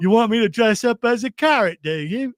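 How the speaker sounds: high, loud shouting monster carrot; hammed-up cartoon carrot, rising to a yell. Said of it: "I'm a monster carrot".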